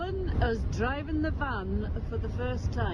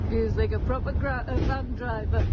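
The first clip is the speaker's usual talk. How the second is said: jolted by a bumpy ride; on a bumpy road. Real, not acted. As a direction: voice shaken by road bumps. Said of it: "Excuse the bumps".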